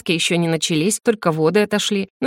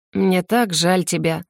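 tender sympathy; slower than usual. Acted. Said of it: "улыбнулась она".

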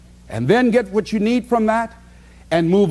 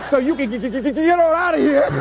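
imitating stutter; 6 semitones higher, faster than usual. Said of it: "she stutters".

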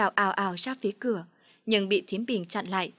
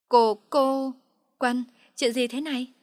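shocked stammer; 3 semitones higher, 5 dB louder, slower than usual. Acted. Mi Vân shocked at seeing Phượng.

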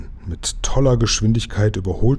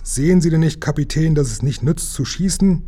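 high urgent raised voice; urgent plea; 6 semitones higher than usual. Acted. Lukas urging the captain to stop firing, high and urgent.

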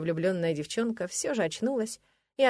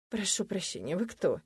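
хрипловатый спросонья голос; 5 dB quieter than usual. Acted. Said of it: "Хриплым сосноголосом спросила я".

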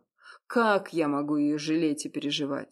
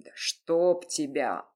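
angry bark; slower than usual. Acted. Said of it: "Разозлившись, рявкнул на неё".

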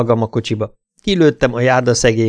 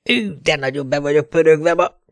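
lightly hammed-up call, pitched higher; a wired robber's mild hyped-up cry; mock cry out; 5 semitones higher than usual. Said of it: "kiáltotta". (enyhén eljátszott felkiáltás)

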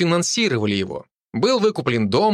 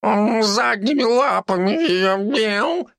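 high, slow cat voice; cat tells on its owner; cat meowing words; 9 semitones higher, much slower than usual. A narrator's reading. Cat tells police about the beating, high slow cat voice. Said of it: "мяукнул кот".

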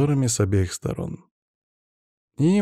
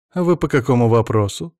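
with a claim in the voice; 4 dB louder than usual. Acted. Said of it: "с претензией в голосе спросила".

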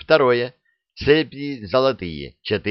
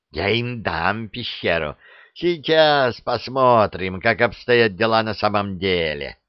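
grumbling. Acted. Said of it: "буркнул бессмертный злодей".

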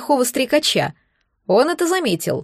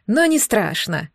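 gloating monster; 2 semitones lower, slower than usual. Acted. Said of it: "злорадно приговаривает".

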